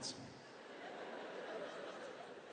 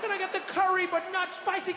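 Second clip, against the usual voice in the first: higher, meek ordering voice; mock timid customer; 8 semitones higher than usual. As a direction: ask like a nervous tourist. Mocking white friends ordering.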